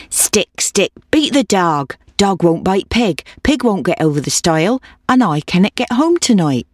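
lightly voiced old woman, rhythmic plea; urging old woman. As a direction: chant the cumulative refrain, lightly in character.

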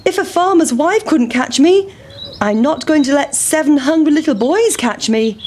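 high squeaky boastful taunt; cheeky pancake. A narrator's reading. Pancake boasting to the boys, squeaky taunt. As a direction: brag as it rolls away.

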